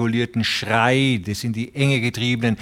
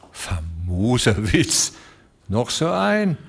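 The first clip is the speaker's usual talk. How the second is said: grim growl; slower than usual. Acted. Ostermann growls at the room's silence, grimly. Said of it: "knurrte grimmig".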